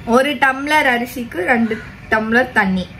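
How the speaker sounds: unhurried, spelled-out answer; slow recital. Real, not acted. Answering parent's question on how much water, slow recital. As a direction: repeat the measure slowly and steadily. Repeats the rule when asked.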